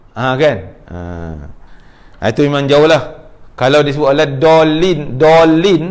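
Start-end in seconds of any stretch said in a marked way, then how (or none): 4.4-5.8 "dolin" with a plain d, firmly pressed; dad turned to dal. Shown as a demonstration. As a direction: repeat the faulty "dolin" for students. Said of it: "dah jadi huruf dal". (sebut "dolin" dengan bunyi dal)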